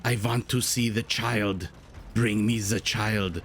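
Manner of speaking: put-on slow, solemn German-accented drone, lightly done; a mild German accent, dragged out and grave; Werner Herzog impression. Caster imitating a German director's slow, grave German accent. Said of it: "The one who talks like this".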